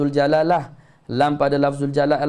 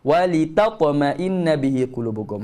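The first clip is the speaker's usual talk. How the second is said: slow chanted verse; Quranic recitation. Shown as a demonstration. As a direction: intone the words with care. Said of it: "teacher recites verse".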